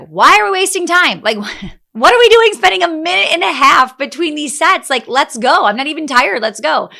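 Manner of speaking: loud, high, impatient push to keep lifting; fired up and itching to go, half laughing. Retold or imitated. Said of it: "I was like".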